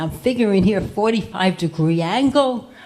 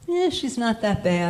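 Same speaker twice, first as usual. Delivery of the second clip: softly muttered aside, quieter; under his breath; 5 dB quieter than usual. Retold or imitated. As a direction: mumble it half to himself. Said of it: "I hear him say under his breath".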